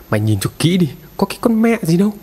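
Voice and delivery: a mildly acted angry rebuke, jumping high at the end; enraged husband. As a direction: shove her toward the pot and scoff. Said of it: "thì điên tiết lắm". (chồng điên tiết quát vợ)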